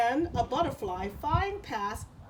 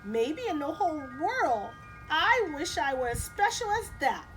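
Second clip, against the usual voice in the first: lightly voiced cricket; 9 semitones higher, 3 dB louder than usual. Cricket in read story.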